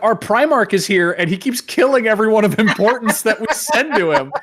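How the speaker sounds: high-pitched mock exasperation; half-laughing mock dismay; exasperated captains. Captains at a loss, retold.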